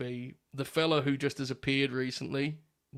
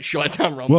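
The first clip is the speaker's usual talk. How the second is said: Stephen A putting over; 8 dB louder than usual. Retold or imitated. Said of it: "he'd be like".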